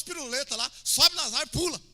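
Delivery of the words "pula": ordinary talk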